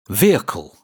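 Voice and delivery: "Vehicle" as VEE-kul, two syllables; careful model word "Vehicle"; model pronunciation. Shown as a demonstration. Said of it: "This lesson is about a moving machine".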